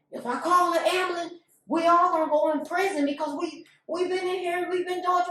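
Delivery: high-pitched, urgent protest; retold alarmed refusal. Ex-husband refuses to call ambulance over prison, alarmed. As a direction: act out a man pleading against calling for help.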